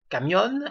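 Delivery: camión, stressed on the final O; accent sur le O. Shown as a demonstration. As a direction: say camión in Spanish, leaning on the last syllable. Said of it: "avec un accent sur le O". (camión, accent tonique sur le O final)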